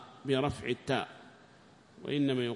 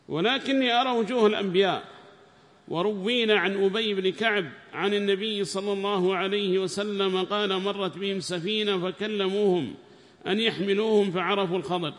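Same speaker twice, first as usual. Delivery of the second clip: reading the book aloud, raised and formal; loud text reading; 6 semitones higher, 7 dB louder than usual. Acted. Student reads the tafsir aloud to the sheikh, raised and formal. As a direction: read the passage out to the class, loudly.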